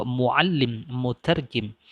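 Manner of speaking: "muallim, mutarjim" with weight on "al" and "tar"; stress on second syllable. Shown as a demonstration. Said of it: "tekankan pada yang kedua". (tekanan pada "al" dan "tar" dalam "muallim, mutarjim")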